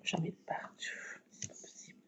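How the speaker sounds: hushed whisper, barely voiced. Real, not acted. Crafting at night while her husband sleeps, whispering. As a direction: keep it to a breath so no one wakes. Sticky hands, husband asleep.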